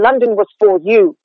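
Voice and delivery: "for" with a full rounded vowel, stressed. Shown as a demonstration. Coach showing the stiff unnatural version. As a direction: give "for" its full r-coloured vowel. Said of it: "that doesn't sound like a person".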